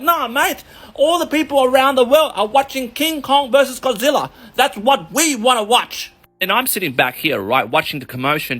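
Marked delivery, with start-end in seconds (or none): 0.0-6.1 dismissive bloke. Retold or imitated. Upstairs patrons shout down the locals, mocking. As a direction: brush off the locals, mate. Upper floor crowd retort.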